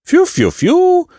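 high "fiu" imitating whistles; grudgingly whistle your approval in words; very high half-hearted hooray; reluctant cheer. A narrator's reading. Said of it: "uradowali się niechętnie".

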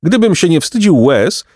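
high-pitched, mildly shrieking bird; squawking pelican lament; screechy pelican. A narrator's reading. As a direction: cry it out high, near tears with hunger. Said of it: "odrzekł wrzaskliwie Pelikan".

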